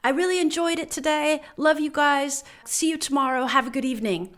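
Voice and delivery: a hint of another woman's voice; lightly voiced woman. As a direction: imitate a coworker's kind goodbye. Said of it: "a woman gets on and said".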